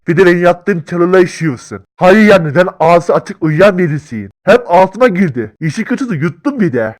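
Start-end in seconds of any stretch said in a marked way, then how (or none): 0.1-5.5 indignant rant. Acted. Ranting about the bear.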